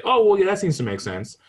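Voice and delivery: high, loud mock concession; high-pitched grudging agreement; grudging relative. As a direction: play the relative giving in.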